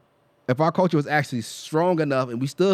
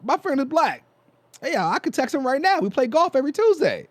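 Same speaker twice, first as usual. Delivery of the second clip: much higher, chirpy mock white guy voice; 12 semitones higher than usual. Mocking a racist white guy's excuse, higher put-on voice. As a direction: sing out the excuse like a clueless suburban dad.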